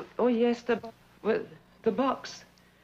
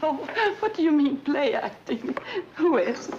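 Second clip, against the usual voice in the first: indignant outburst; 6 semitones higher, 3 dB louder than usual. Acted. Hurt outburst at lover's accusation.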